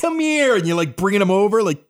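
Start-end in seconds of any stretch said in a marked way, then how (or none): 0.0-0.6 high, pointed "come here"; dad summons. Retold or imitated. Father calling his son over from the stairs, high and firm. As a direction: beckon the kid over like a stern father. Dad beckoning with two fingers.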